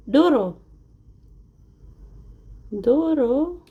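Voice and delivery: ordinary delivery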